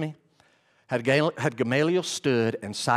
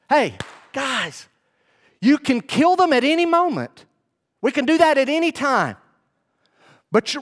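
raised, higher pleading call to a hot-headed crowd; urgent, raised warning to the council; 9 semitones higher, 5 dB louder than usual. Retold or imitated. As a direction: hold back an angry mob, loud and urgent. Gamaliel urging the enraged council.

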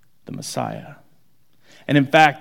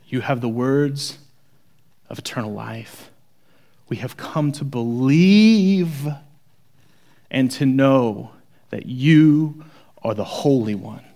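hushed reverence; reverent confession; slower than usual. Retold or imitated. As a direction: confess it slowly with awe. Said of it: "you hear it when he finishes it".

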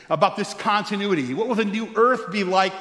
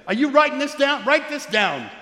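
God calling to John; 7 semitones higher than usual. Retold or imitated. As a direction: press John to take it down. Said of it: "That's what he says".

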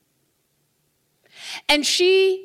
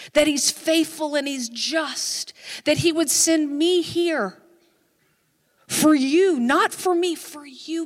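slow, building preacher's declaration; retold fervent prayer; emphatic prayer declaration; 4 dB louder than usual. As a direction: drive each phrase home with rising force. Retold forceful prayer over woman.

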